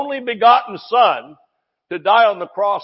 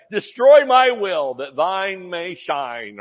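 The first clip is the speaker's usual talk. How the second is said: mock pious plea; slower than usual.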